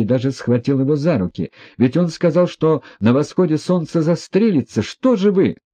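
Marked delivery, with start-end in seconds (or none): 1.8-5.6 high, loud, alarmed pleading; frightened outcry. A narrator's reading. Vera begs the prince, high and frightened. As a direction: beg them to stop him in a panic. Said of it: "вскрикнула Вера ... в чрезвычайном испуге".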